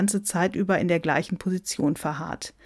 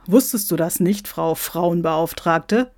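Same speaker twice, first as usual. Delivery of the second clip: mildly taunting question; jibe, drawing out the title slowly; needling; 3 dB louder than usual. Acted. Santa baits the equality officer, needling. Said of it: "stichelte der Weihnachtsmann".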